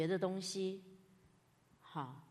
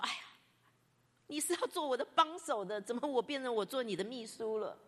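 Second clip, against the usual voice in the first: higher, aggrieved "哎呀"; indignant complaint; 4 semitones higher than usual. Retold or imitated. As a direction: vent that the helper became the boss. Complaining thoughts about coworker.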